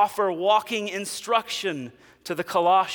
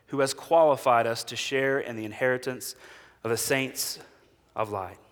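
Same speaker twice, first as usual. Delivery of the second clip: scripture reading; 3 semitones lower than usual. Acted. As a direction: read it as sacred text, letting it settle.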